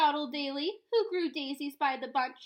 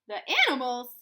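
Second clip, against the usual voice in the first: louder, scornful cry of disbelief; indignant yell; 2 semitones lower, 6 dB louder, faster than usual. Acted. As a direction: bark the question like he can't believe it. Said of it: "yelled Mister Payne".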